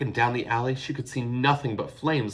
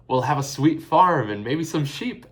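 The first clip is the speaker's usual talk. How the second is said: cooing; 6 semitones higher, 8 dB louder than usual. A narrator's reading. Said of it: "Eilish cooed".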